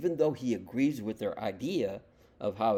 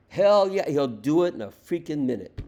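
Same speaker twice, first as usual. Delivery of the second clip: much higher and far louder shout; a loud, gleeful hell yeah; excited outburst; 4 semitones higher, 10 dB louder than usual. Real, not acted. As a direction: blurt it out triumphantly. Excited echo of Trump quote.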